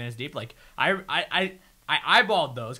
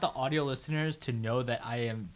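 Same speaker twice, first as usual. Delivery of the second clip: laughing; 7 dB louder than usual. Real, not acted. Laughing while describing head shake.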